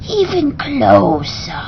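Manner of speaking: very slow, silky and coaxing; drawn-out slithery beckon. Acted. Beast luring the parrot closer, slow and silky. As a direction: coax him right up to the mouth.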